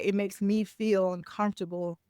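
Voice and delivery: composed, even-toned I-statement; calm. Acted. Coach models admitting discomfort to someone, calmly. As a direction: say it steadily, without blame. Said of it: "say that in a calm state".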